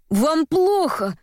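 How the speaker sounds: slow, high-pitched alarmed cry. A narrator's reading. Courier to drowning Varvara in the bath, crying out. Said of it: "закричал пан Софий".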